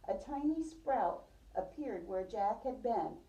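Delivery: storybook read-aloud for a class; gentle read-aloud voice; reading to children. Acted. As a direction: tell it like a picture book to little kids. Teacher reads picture book aloud.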